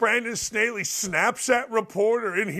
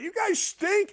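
mock yell; 12 semitones higher than usual. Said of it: "I'm like".

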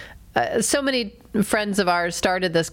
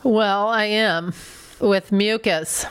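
blocked nose from being sick; congested; 2 semitones lower than usual. Real, not acted. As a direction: talk with a stuffy, sick nose. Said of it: "You're a little congested".

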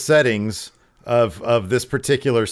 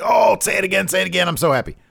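high-pitched mock delight, settling toward the end; overjoyed, imitated; 9 semitones higher, much faster than usual. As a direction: gush it like a giddy fan, hammed up. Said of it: "He's very happy".

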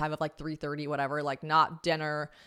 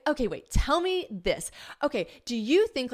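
Bridget; 7 semitones higher than usual. Retold or imitated. Imitating friend Bridget's eager chat.

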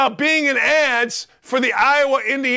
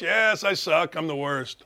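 mock meek agreement; 5 semitones lower, 6 dB quieter than usual. Mock meek reply to critics.

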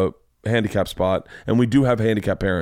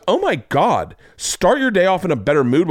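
mock indignant teacher; 8 semitones higher than usual. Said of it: "And then she goes".

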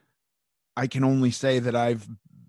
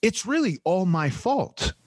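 high, lightly whiny self-blame; mock self-blame; 8 semitones higher than usual. To her kids, a high mock apology. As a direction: put on a pitiful tone. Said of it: "and then I go like".

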